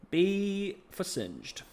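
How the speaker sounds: very slow, high grade announcement; slow verdict. Pretend. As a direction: stretch out the verdict. Drawn-out verdict.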